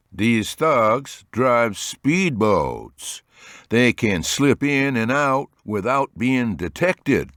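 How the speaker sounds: firm, very slow and measured. A narrator's reading. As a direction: state it firmly, slowly. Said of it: "with firmness in his voice".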